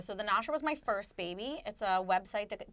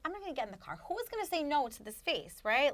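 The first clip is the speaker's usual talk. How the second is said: sweet Jewish lady voice; 6 semitones higher than usual. Retold or imitated. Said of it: "sweet, nice, m-, slightly annoying Jewish lady voice".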